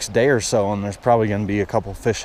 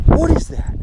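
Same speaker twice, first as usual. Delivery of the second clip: very high, louder cry of disbelief; real astonishment; 5 dB louder than usual. Real, not acted. Angler seeing a huge fish, astonished. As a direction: squeal it in amazement. Sees the big fish on line.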